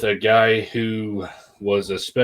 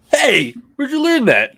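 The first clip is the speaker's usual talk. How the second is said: high, raised-voice telling-off; mock parental scolding; 14 semitones higher, 5 dB louder than usual. Dad pretending to catch his daughter swearing, mock-shocked scolding. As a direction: call it out as a scandalized parent.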